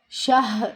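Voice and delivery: شاہ with a long آ; the mistake, drawn-out شاہ; wrong reading. Shown as a demonstration. Teacher shows students the wrong شاہ sound. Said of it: "شاہر نہیں پڑھنا".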